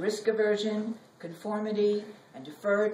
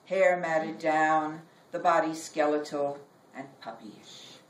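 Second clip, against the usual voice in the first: poem reading; 2 semitones lower than usual. Acted. Poet reading her own poem to an audience, measured.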